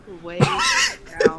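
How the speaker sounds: high, slow hammed-up shout; mock dramatic shout. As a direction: belt it out like a melodrama. Reading fanfic, mock emphasis.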